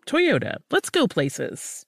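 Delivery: high then slow tagline; slogan. Acted. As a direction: land the slogan slowly.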